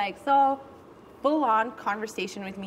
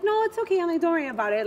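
retold sweetness; 3 semitones higher, much faster than usual. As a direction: turn the offer down sweetly. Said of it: "I was being sweet about it".

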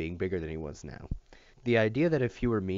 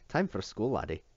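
calling out; 2 semitones higher than usual. Acted. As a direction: call out cheerfully, lightly Scottish. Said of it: "called Tamlin".

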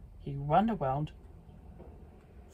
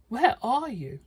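calling out; 6 semitones higher, 4 dB louder than usual. Acted. Pigs calling toward the well.

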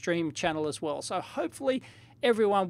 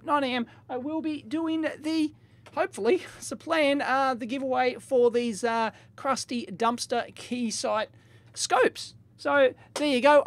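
higher, bouncy excited announcing; hyped giveaway announcement; 4 semitones higher than usual. Real, not acted. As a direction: sell the giveaway with a grin.

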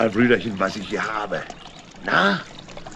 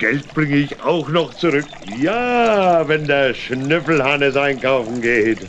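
boastful; 4 semitones higher, 4 dB louder than usual. Acted. Boasting about his shopping.

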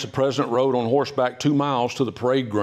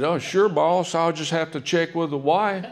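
a higher, lightly voiced henpecked general; General Grant's reply; 6 semitones higher than usual. Grant answers Lincoln's double date offer, light mock voice. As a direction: shrug it off to the boss. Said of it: "General said".

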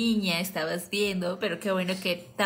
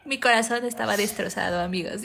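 normal talking voice

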